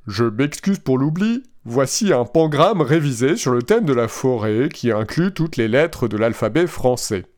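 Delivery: flat, even machine voice; robot voice. Retold or imitated. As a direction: read it like a chatbot. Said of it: "avec ma belle voix de robot".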